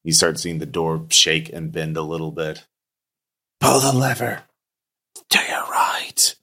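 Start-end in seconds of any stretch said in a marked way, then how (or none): 3.6-6.4 ghostly voice. Acted. Ghost instructs player.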